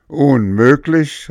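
high, loud, slow disbelief; incredulous cry. A narrator's reading. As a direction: scoff at the very idea. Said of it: "rief der Oger".

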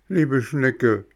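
high, eager puppet voice; a small puppet insisting on who he is; puppet boy voice. Acted. Bengele bittet. (hohe, eifrige Hampelmannstimme)

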